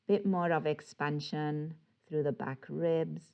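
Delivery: calm, unhurried yoga guidance with long pauses; guided breathing. Real, not acted. Yoga teacher guiding attention to the breath, calm guided breathing. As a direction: ease them gently through each breath, leaving space.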